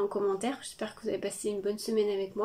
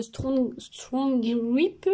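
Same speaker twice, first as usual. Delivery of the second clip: English words in a French accent; 2 semitones higher, 3 dB louder, much slower than usual. Real, not acted. Vlogger trying an English product name, French accent. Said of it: "désolée pour mon accent anglais".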